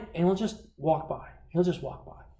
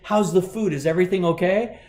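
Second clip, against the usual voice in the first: cheery server check-in; 4 semitones higher, 4 dB louder than usual. Retold or imitated. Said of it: "the server will walk up and say".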